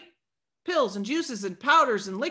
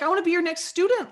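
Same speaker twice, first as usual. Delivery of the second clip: excited realtor; 6 semitones higher, faster than usual. Retold or imitated. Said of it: "He's so excited".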